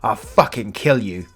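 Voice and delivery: loud, high furious tirade; exploding in rage. Retold or imitated. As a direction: let it all out at the father who ruined everything. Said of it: "I fucking exploded".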